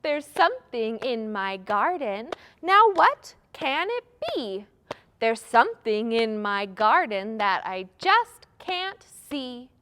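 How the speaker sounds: rhythmic, emphatic recital with a lifted question; playful guessing rhyme; children's rhyme. Shown as a demonstration. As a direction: chant it to a steady beat for kids. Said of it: "a little rhyme about that".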